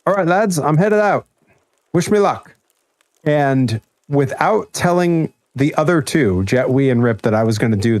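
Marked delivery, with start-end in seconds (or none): 0.0-2.5 high-pitched imitation of a British lad; British accent. Heading out on a date, telling his housemates in a British accent. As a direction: put on a higher British accent. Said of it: "in his British accent".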